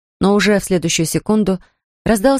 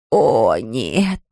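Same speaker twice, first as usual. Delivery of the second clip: low, drawn-out groan of dismay; drawn-out moan; 7 semitones lower than usual. A narrator's reading. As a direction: let it sag out of her, low and long. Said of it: "протяжно простонала старушка".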